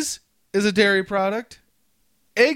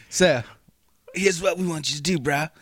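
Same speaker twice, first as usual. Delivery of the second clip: lightly voiced SoCal surfer accent; easygoing Californian bro accent, lower; 3 semitones lower than usual. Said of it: "you gotta do a Californian accent".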